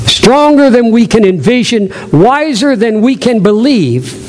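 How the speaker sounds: slow, measured poem reading; unhurried recitation with weighted key words; devotional reading. Acted. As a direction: read it reverently, drawing out each line.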